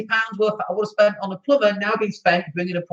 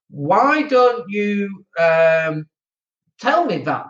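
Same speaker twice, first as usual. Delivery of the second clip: drawn-out, retold exasperation; exasperated plea; much slower than usual. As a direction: stretch the question slowly in mock despair. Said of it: "I went nuts for these tenants".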